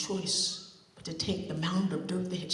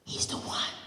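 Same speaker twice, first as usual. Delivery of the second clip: hushed secret; whisper. Acted. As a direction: whisper it to her friend. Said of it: "Margaret whispered to Dippy".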